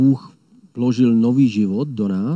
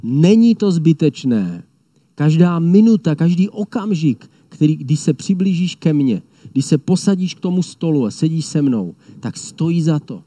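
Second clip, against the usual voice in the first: proclaiming lion of Judah; 3 semitones higher than usual. Retold or imitated. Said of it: "Ten křičí".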